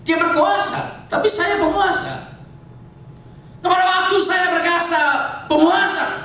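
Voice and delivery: high, ringing preacher's delivery; full-force preaching. Real, not acted.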